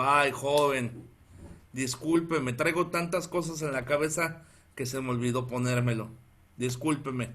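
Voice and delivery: mildly meek apology to the officer; disculpa apenada. Retold or imitated. Se disculpa ante el policía. (disculpa apenada, en voz más baja)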